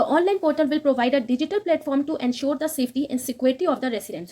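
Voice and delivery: very slow, careful reading of English text; slow news read. Acted. Teacher reading the English news line to students, slow and careful. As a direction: read each word out slowly for students.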